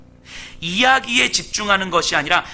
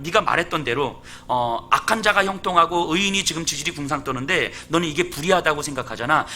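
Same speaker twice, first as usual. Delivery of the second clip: teasing God. Acted. God mocks Job, daring him to rule, lightly teasing. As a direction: dare him half-mockingly, like a challenge. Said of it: "놀리고 있는 거예요, 하나님이".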